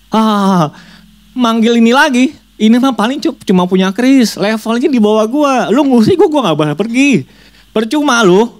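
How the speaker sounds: very high, sneering spirit voice; mocking demon voice. Demon laughing at the second shaman, high sneer. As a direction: taunt like a demon who can't be driven out. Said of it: "Diketawain lagi".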